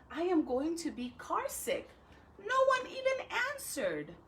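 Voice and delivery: put-on reading a picture book to children; story reading. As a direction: tell Alexander's gloomy day to kids.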